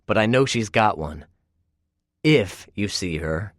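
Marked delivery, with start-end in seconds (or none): 2.2-3.5 'If you see her' said slowly with every word weighted; stressed condition. Acted. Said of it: "I emphasize that word".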